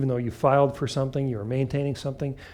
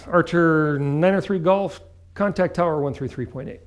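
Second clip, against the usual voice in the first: controller over the radio; 4 semitones higher, 3 dB louder than usual. Retold or imitated. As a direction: call it like a controller. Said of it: "You hear the words".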